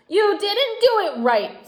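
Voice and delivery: a fussy doll finding fault; scolding doll. A narrator's reading.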